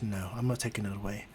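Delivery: low, soft reassurance; reassuring hero. Acted. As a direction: answer gently, voice dropped. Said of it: "Izuku goes".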